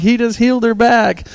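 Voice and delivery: high, loud insistence; re-enacted protesting shout; acted shouted reply. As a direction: holler it back in defense. Shouts back at the bystander.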